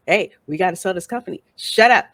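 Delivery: intimidating. Retold or imitated. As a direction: imitate bullying someone into silence. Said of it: "trying to scare him into silence".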